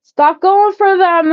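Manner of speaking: loud, high, slow insistence; high slow loud urging; emphatic plea. Real, not acted. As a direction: plead it out loud and drawn.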